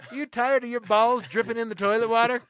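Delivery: high, loud ad pitch; infomercial pitch. Acted. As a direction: sell it like a late-night ad.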